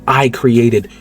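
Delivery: slow, lightly voiced grandiose mastermind; drawn-out hint of a smug genius; mastermind claim. Mister Glass reveals himself to the Beast, slow light mastermind voice. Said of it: "he's like".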